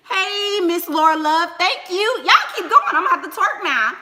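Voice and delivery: high, loud, laughing thanks; excited shout-out. Real, not acted. Streamer thanks Miss Laura Love for giving, excited shout-out. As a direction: gush at a generous viewer, pitch way up. Greeting a viewer who donated.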